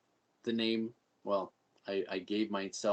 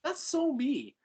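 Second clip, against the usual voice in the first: high, loud, laughing exclamation; laughing delight; 11 semitones higher, 8 dB louder than usual. Retold or imitated. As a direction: retell your delighted reaction through laughter. Laughing retelling of own delighted reaction.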